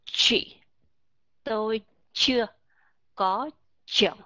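"Chị tôi chưa có chồng" with every ch pushed hard and heavy; heavy ch sounds. Shown as a demonstration. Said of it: "nói theo cái giọng nặng một chút".

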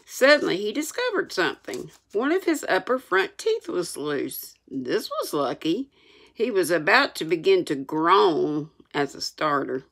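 measured, expressive reading aloud; story narration. A narrator's reading. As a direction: read it like an audiobook storyteller.

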